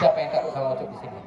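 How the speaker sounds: fast shout to the audience. Real, not acted. Host shouts a question to the children, fast. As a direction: call it out quickly to the crowd.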